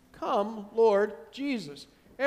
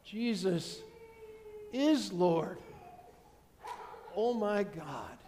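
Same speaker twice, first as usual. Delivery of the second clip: soft, slow, sinking dread; dismayed realization; 7 dB quieter, slower than usual. Retold or imitated. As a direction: let it dawn on you in horror. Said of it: "they're gonna say it much differently".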